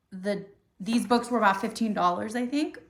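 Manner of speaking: talking through hiccups; words broken by hiccups. Real, not acted. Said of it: "Sorry, I keep hiccuping".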